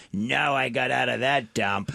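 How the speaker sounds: slow, dismissive audience member; heckling lady impression. Lady scorning her old home, slow imitation. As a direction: drag it out as the lady in the crowd.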